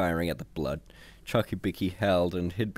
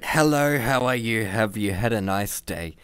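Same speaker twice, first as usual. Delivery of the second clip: sarcastic; 3 dB louder than usual. A narrator's reading. Hans mocks the computer's line.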